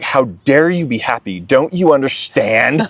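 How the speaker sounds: mildly indignant, building; a touch of outrage at others' happiness; retold indignation. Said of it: "and I was pissed".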